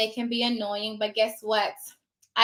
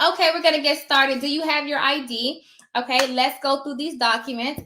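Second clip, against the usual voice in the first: polite; 2 semitones higher than usual. Shown as a demonstration. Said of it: "just politely say".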